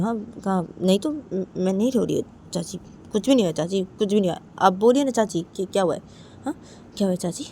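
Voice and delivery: lightly voiced daughter-in-law, protesting; Uma in denial. Daughter-in-law denies crying to aunt, lightly acted protest. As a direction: brush off the worry in quick little denials.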